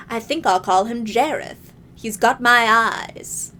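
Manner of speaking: a hint of a smug villain king; Goblin King voice. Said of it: "my Goblin King voice is particularly good".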